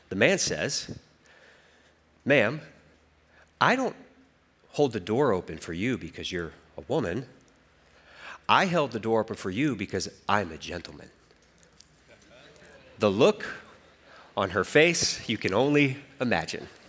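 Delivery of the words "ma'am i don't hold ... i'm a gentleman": composed, quick, calm, smooth, even delivery. Retelling a man's reply to a woman who refused a held door, calm and smooth. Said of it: "with a calm voice and a smooth delivery".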